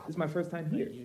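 preacher answering the yelling pastor, soft; talking softly. Retold or imitated. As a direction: calmly reason with him, soft. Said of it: "Talking softly back to him".

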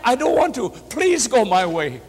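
high-pitched pleading, slowing at the end; imitated cry of appeal; retold tearful plea. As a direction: act out the husband begging, without real tears. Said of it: "Just cried".

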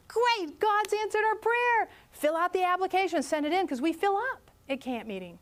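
high, eager burst of joy; thrilled retold response; excited. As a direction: cheer the answered prayer. Speaker's own excited reply retold.

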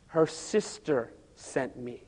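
slow eerie demon speaking through her. Retold or imitated. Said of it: "the voice said".

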